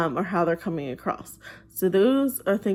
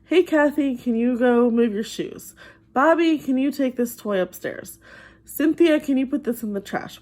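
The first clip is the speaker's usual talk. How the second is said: asking nicely; 4 semitones higher than usual. Retold or imitated. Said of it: "Usually they ask the child nicely the first time".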